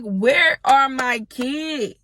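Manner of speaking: drawn-out, dead slow demand; slow pleading question; slow frantic demand. Retold or imitated. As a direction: drag each word out, desperate. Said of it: "I'm like".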